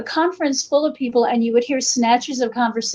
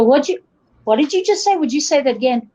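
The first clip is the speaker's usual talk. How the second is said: mildly baffled, higher-pitched question; puzzled listener; 4 semitones higher, faster than usual. Retold or imitated. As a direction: imitate someone who can't understand you. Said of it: "But they go".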